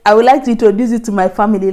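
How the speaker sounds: tossed off lightly, as if nothing; offhand announcement, mock casual; casually. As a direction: say it like it's no big deal. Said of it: "you just said it like, you know, just casually".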